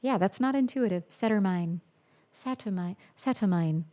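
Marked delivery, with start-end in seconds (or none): 1.1-1.8 Saturnine ending in a long eye, like "nine". Real, not acted. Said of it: "Long eye". 2.3-3.9 attempted British accent. Shown as a demonstration. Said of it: "with a British accent".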